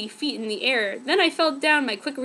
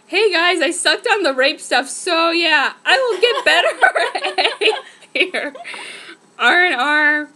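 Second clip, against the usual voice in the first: mock peppy read; 4 semitones higher, 7 dB louder, slower than usual. Real, not acted. Reading author's note mockingly.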